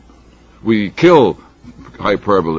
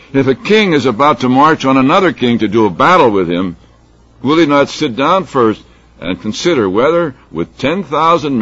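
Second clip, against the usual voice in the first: raised, measured reading of a parable; scripture reading; 4 semitones higher, 4 dB louder than usual. Acted. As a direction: read it out to a congregation, emphatically. Reads scripture aloud.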